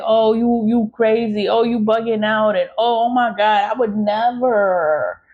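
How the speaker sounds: a light mock of people brushing her off; mocking accusers. Voicing people who deny it, lightly mocking. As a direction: mimic them waving off her claims. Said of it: "they're gonna say".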